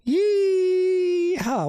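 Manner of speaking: high whooping cowboy holler; cowboy yeehaw shout. Acted. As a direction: let out a long yeehaw. Soundboard yeehaw effect.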